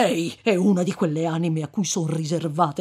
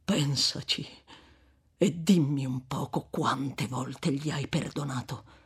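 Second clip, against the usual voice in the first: calmer seriousness; 3 semitones lower than usual. Acted. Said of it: "con una serietà più tranquilla".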